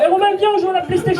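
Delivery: put-on quick, high southern French accent. A kid at home begs Romain to play, in a southern French accent. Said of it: "il a l'accent du Sud".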